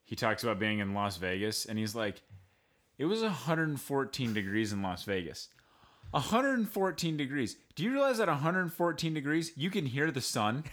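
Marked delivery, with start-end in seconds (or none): 3.0-10.6 higher, faster incredulous comic voice; a stand-up comic marvelling at the heat; Jim Gaffigan impression. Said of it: "the Jim Gaffigan joke where he says".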